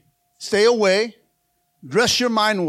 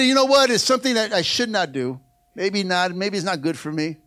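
hedging excuse; 3 semitones lower than usual. Retold or imitated. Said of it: "They look at it".

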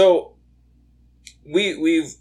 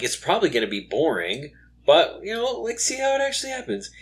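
rising excited quote; 6 semitones higher, faster than usual. Retold or imitated. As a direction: voice climbing high and fast. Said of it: "I'm like".

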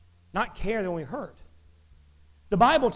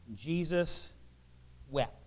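low, measured reading with a pause before the last word; solemn verse reading; 4 semitones lower, 7 dB quieter than usual. A narrator's reading. Preacher reads the short verse to the congregation, solemnly.

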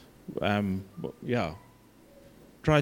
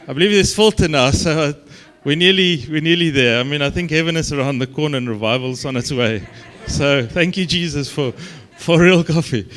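excited joking; 6 dB louder than usual. Real, not acted. Joking excitement about coffee.

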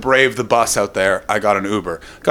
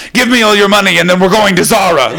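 raised, louder mugger demand; loud, higher-pitched comic stick-up; mock mugger; 5 semitones higher, 5 dB louder, faster than usual. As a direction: play a demanding mugger for laughs. Acting out the imagined mugger.

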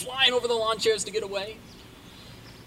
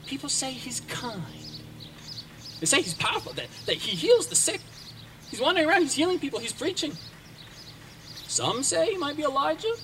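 gossiping leper; 7 semitones higher than usual. Acted. Fellow lepers gossiping round campfire.

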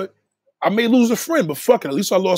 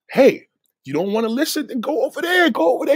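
heated dismissal; 6 semitones higher than usual. Real, not acted. Sending off someone who won't listen.

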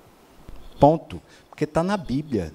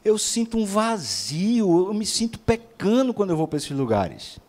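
retold desperation; 4 semitones higher than usual. Troubled person confessing an empty feeling, imitated desperately. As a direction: imitate someone confessing in distress, pitch raised. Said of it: "a pessoa tava desesperada".

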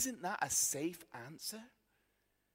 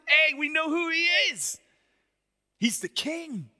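louder, higher, exultant cry; excited crowd; 9 semitones higher, 9 dB louder than usual. Retold or imitated. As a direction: call it out like a cheering crowd. Crowd proclaiming Jesus king.

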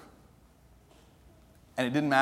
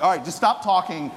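louder, higher mock surrender through laughter; laughing exasperation; 7 semitones higher, 5 dB louder than usual. Drew worn down by the pastor's talking, giving in with a laugh. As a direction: give in laughing to stop the talking. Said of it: "it was just like".

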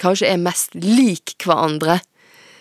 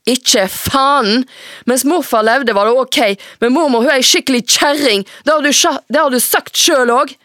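higher and louder, hot and rushing; furious teen rant; 7 semitones higher, 4 dB louder than usual. Acted. Teenage daughter raging at her mother about grandmother. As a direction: blow up at mother.

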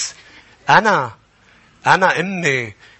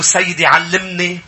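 prayerful plea; 3 semitones higher, slower than usual. Shown as a demonstration. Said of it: "ارفع ايديك قل له".

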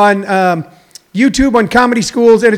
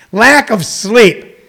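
slow; 2 semitones higher, much slower than usual. Real, not acted. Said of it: "I'll explain that in a little bit".

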